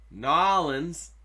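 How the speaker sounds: "Nolans" run together as two syllables, NAW-lins; local pronunciation. Shown as a demonstration. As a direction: say "Nolans" like a boss, local style. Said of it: "You gotta say it like a boss".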